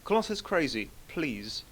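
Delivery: half-hearted imitation of a pleading woman; Hannah Butts. Host trying to mimic his co-guest pleading, weakly imitated. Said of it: "I'm trying to do a Hannah Butts impression".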